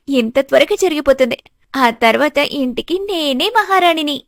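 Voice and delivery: lightly voiced plotting young woman; a hint of gleeful villainess, plotting aloud; scheming daughter, gloating.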